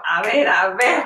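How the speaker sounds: stifled giggles. Real, not acted. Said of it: "Aguanta la risa hasta que sale el payaso".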